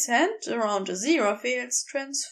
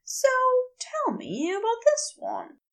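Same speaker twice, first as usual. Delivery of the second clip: blurted, lightly voiced Aziraphale; 11 semitones higher than usual. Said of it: "blurting out".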